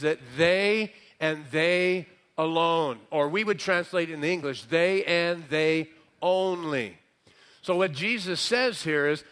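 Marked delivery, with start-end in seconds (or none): 0.4-3.0 both "they"s leaned on, deliberately spaced; stress on THEY. Shown as a demonstration. Preacher explaining the emphasis, stress on THEY. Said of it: "the emphasis means". 4.6-7.0 slow, each "they" held out; stress on THEY. Shown as a demonstration. Preacher translating the Greek emphasis, stress on THEY. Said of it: "the emphasis means".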